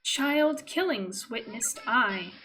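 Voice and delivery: slow, lightly voiced child-like doll chant; cold sing-song doll. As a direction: drag each phrase out like a creepy doll. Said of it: "high-pitched voice like that of a child, slowly repeats several phrases in a cold and distorted, yet oddly sing-songy voice".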